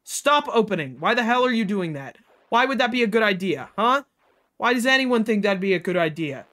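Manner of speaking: angry yelling. Real, not acted. Yelling at game characters.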